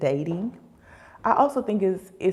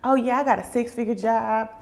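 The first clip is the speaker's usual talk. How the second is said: imitating an oversharing show-off, higher; mock bragging; 4 semitones higher, 3 dB louder than usual. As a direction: boast away in a raised mimicking voice. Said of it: "you don't need to tell everybody".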